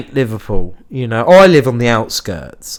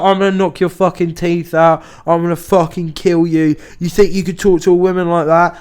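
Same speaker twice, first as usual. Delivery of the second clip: mild mock yell, pitched up; retold screaming threat; 6 semitones higher than usual. Big man threatens pub worker over a woman, mock angry. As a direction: imitate an enraged man making threats, without full volume. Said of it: "screaming in my face".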